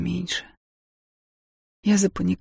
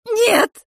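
much higher, louder scream; shout; 7 dB louder than usual. Acted. Wife screaming at her husband to stop. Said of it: "крикнула я".

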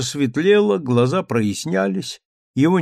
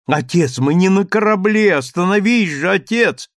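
frantic pleading; 6 semitones higher, 4 dB louder than usual. A narrator's reading. Daughter begs father to stop.

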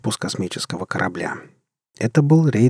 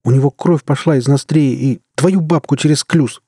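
loud, higher cursing; 4 semitones higher, 4 dB louder than usual. A narrator's reading. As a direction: swear it out loud. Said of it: "выругался Мюрат".

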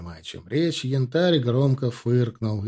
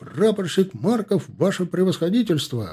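high, crisp shout to the general; smart shouted report; 7 semitones higher than usual. A narrator's reading. Young ensign reporting to the general: crisp, dashing shout. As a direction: snap out the report, full of dash. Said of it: "выкрикнул тот молодцевато".

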